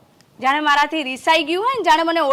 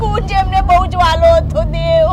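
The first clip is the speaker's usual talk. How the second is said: tearful pleading; 4 semitones higher, 4 dB louder than usual. Acted. Mother begs him to find son.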